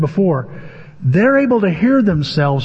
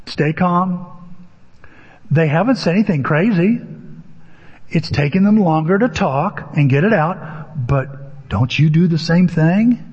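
calming self-talk. Retold or imitated. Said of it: "this conversation in my head going".

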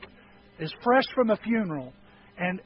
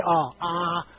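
mouth held open; 4 semitones lower than usual. Retold or imitated. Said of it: "when he put the thing in my mouth".

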